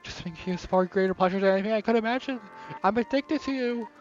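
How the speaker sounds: breathless, devoted, unsettling love speech; obsessive Yuri confession. Acted. Yuri confessing her obsessive love to Guido, fervent. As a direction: pour it out like she can't stop.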